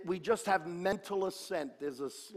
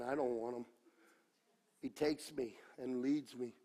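careless reading; 6 semitones lower, 8 dB quieter than usual. Shown as a demonstration. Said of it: "the devil wants you to read it like this".

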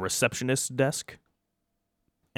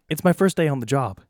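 higher, stammering first-day worker; nervous new guard; 7 semitones higher, 5 dB louder than usual. Acted. New vault guard on his first day, worried and higher-pitched. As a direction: fumble the words like a worried rookie guard.

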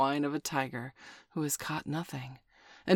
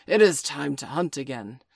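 gruff wolf voice; 8 dB louder than usual. Acted. Father Wolf rises to hunt.

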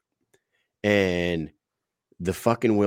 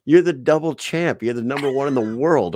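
high, loud amazed disbelief; incredulous praise; 6 semitones higher, 5 dB louder than usual. Retold or imitated. Telling the champ he shouldn't wait, amazed. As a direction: gush at the champ in line. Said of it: "I'm like".

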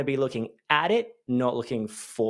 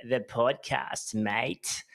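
Aussie drawl; 5 dB quieter, much slower than usual. Pretend. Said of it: "depending on how you talk".

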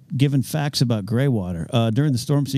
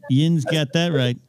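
slow, higher Pittsburghese; Pittsburgh accent; 4 semitones higher, slower than usual. Shown as a demonstration. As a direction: draw out a playful Pittsburgh "yinz". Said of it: "that's from Pittsburgh".

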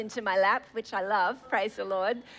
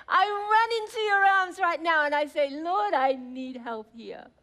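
fervent prayer; 4 semitones higher than usual. Acted. Acted prayer, running to God.

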